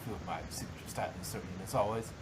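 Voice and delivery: a touch of pride. Acted. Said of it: "allowing a little bit of pride".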